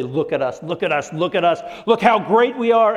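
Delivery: building, boastful look at us; boastful crowd. Retold or imitated. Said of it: "we build up and we say".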